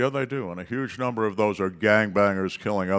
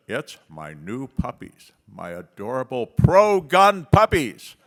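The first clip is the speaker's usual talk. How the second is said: put-on little girl voice; 4 semitones higher, 7 dB louder, slower than usual.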